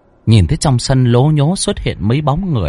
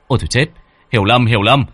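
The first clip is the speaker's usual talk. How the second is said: higher, fast, hurried protest; flustered alarm; 6 semitones higher, faster than usual. Acted. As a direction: rush to stop the mistake in a panic. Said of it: "cậu vội vàng". (vội vàng hốt hoảng, giọng cao và nhanh)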